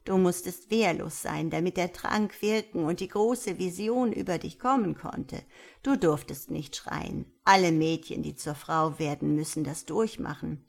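lightly voiced elder, calmly explaining; a hint of a kindly old woman; old village elder. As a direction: explain patiently as the old teacher.

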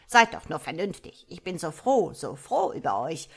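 put-on a fond mother frog trying to calm her kids; old frog mother pleading. A narrator's reading. Old mother frog coaxing her unruly children, loud and fond. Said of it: "sagte der alte Frosch".

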